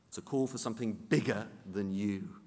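ordinary talk

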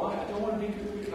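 hammed-up reluctance; mock reluctant whine. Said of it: "he's so reluctant".

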